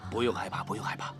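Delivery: put-on calm a frightened child; soothing.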